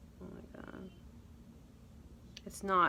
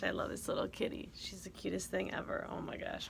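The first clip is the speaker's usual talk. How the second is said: whisper; 7 dB quieter than usual. Real, not acted.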